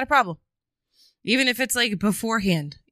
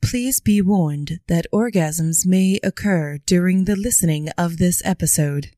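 announcer warning voice. Pretend. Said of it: "that one voice where it's like".

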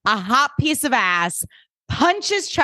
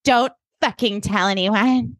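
acted rebuff; 3 semitones higher, slower than usual. Jenny pushing away Eric's comfort, slow angry rebuff. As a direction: space out each word as a firm warning.

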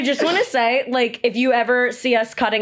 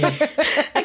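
wheezing laugh; 3 semitones higher than usual. Real, not acted. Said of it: "I can't stop wheezing every time I laugh".

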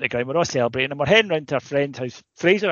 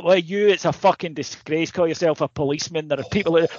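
mock outraged rant; 3 semitones higher, 3 dB louder than usual. Friend ranting at police.

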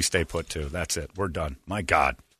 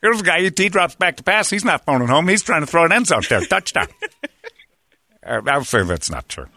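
lightly voiced football commentator; easygoing TV football announcer, barely changed; John Madden. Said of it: "we gotta go John Madden".

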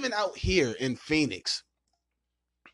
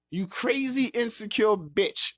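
high-pitched exasperated outburst; exasperated insult; 9 semitones higher, slower than usual. Acted. Venting what they want to say but don't, exasperated. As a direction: let the insult burst out high and stretched.

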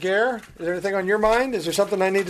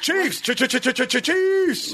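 hype stutter; 7 semitones higher, slower than usual. Pretend. Hyped stuttered team name.

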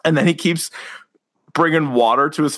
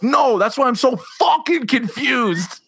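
breaking into laughter on the punchline; can't finish it without cracking up; laughing through the line; 5 semitones higher than usual. Real, not acted. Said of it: "any unnecessary swearing will get you laughing like that".

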